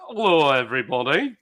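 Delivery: a light imitation of a deep northern English accent; northern accent impression. Mimicking Sharky's northern accent for the stream. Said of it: "he's got a deep northern accent and he talks like this".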